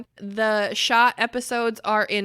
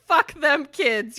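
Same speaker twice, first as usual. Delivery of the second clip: mock fierce; 5 semitones higher, 5 dB louder, slower than usual. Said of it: "Your answer was".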